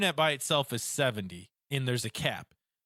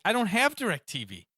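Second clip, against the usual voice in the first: higher-pitched, retold exasperation; incredulous protest; 5 semitones higher than usual. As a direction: object as a baffled customer. Retold protest to phone agent.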